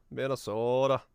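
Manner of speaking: lightly mocking Minnesota accent, "Minnesodah". Shown as a demonstration. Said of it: "Oh, don't you know?".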